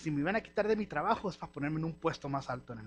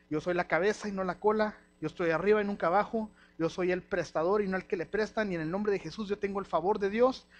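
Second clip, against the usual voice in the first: bold declaration. Acted. Declaring faith, preacher's voice.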